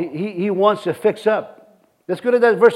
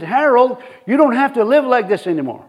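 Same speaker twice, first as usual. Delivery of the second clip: higher-pitched, emphatic call by name; voice from the Lord; 5 semitones higher than usual. Retold or imitated. The Lord calling Harold a second time, emphatic voice from above. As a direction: call out to him with conviction. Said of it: "he heard another voice again".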